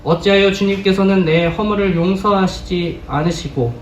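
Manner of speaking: solemn Bible reading, feeling held in check; a measured, grave reading of a sorrowful psalm-like plea; restrained scripture reading. Acted. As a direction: read Job's lament, holding back the emotion. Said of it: "감정을 제어해서 읽었습니다".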